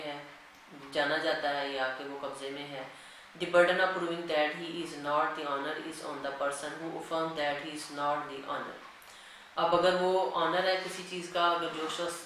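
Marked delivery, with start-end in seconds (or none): 3.3-8.8 dictating a legal section to students at x0.3; slow, deliberate reading of the act; slow statute dictation. Acted. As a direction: read the law word by word, very slowly. Reads the statute text aloud.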